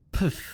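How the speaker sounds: "Pth" as a p released into breathy th; PTH sound. Shown as a demonstration. Teacher introduces the next sound, "Pth" as p plus th. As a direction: pop p straight into th on "Pth". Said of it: "Let's now do P T H".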